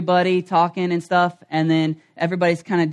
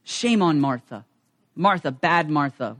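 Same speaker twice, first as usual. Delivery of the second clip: mock scolding; 4 semitones lower, 4 dB quieter than usual. Mocking the church reading.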